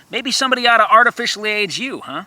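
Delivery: fast, high sarcastic jab; snide quick comeback; sneering retort. Acted. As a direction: spit it back at them. Angry retort at a mocker.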